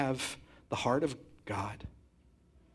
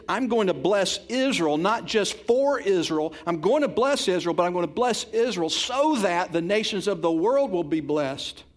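proclaiming God's promise; 4 semitones higher, 6 dB louder than usual. Retold or imitated. God's calling to Israel.

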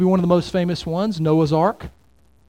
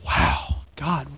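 baffled; 3 semitones lower than usual. Retold or imitated. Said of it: "I look at that and go".

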